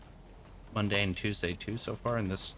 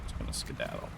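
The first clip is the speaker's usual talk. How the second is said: breathy whisper "skedaddle"; 9 dB quieter, faster than usual. Pretend. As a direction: whisper it while sneaking off. Sneaking away, whispered.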